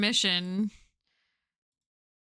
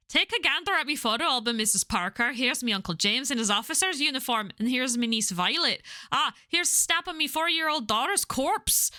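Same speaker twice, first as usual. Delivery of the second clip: mock album-showing patter; 3 semitones higher than usual. Local mimicking someone showing Missus Parker photos, mock-proud lilt. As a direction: present each item with exaggerated cheer.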